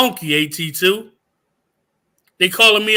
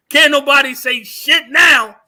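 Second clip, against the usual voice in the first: louder defiant shout; triumphant shout; 4 semitones higher, 5 dB louder than usual. Real, not acted. Showing screenshots to viewers, a louder triumphant shout. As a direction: yell it out like you've won.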